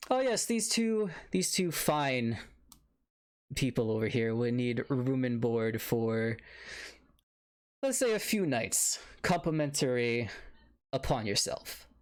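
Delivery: butter up the innkeeper while making a request; smooth town official. Acted.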